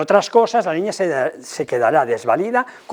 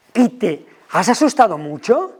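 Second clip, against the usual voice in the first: empathetic; 5 semitones higher than usual. Shown as a demonstration. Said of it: "Comparto su emoción".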